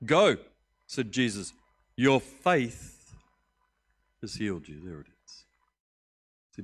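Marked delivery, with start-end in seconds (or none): 0.1-0.4 a single loud ringing go; loud command. Acted. Jesus loudly sending the healed man away. 2.0-4.8 a ringing declaration; loud proclamation. Acted. Jesus loudly declaring to Bartimaeus that he is healed.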